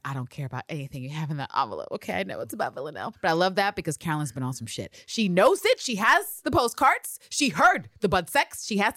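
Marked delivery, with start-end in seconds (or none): 0.0-3.1 fast, dismissive brush-off; imitating Eve. Eve brushing off Carolyn, fast and dismissive. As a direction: rattle it off impatiently. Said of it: "And Eve is like".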